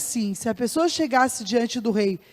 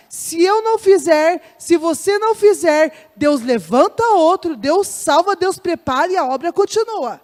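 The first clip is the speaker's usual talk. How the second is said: forceful preaching; 3 semitones higher, 5 dB louder than usual. Acted. Preaching rising to full force.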